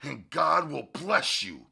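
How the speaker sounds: furious. Acted. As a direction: threaten him with blazing anger. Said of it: "his eyes blazing".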